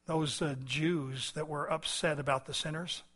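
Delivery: subdued, conversational prayer; spoken prayer. Real, not acted. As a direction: address God quietly and sincerely. Leads closing prayer.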